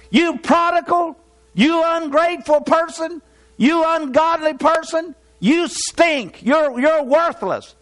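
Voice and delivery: harsh condemning tirade. Retold or imitated. Preacher imitating a Christian scolding an unsaved person, scornful. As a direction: sneer insults at a sinner, mildly hammed. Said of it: "after talking to someone that way".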